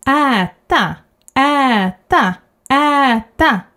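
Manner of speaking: äta with a wide open ä; äta, chin down; long Ä in äta. Shown as a demonstration. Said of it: "open your mouth widely".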